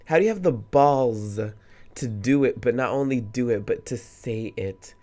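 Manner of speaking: loud indignant outburst; angered. Real, not acted. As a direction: let the anger out at her nerve. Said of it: "what she said angered me".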